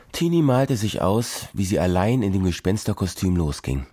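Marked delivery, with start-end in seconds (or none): none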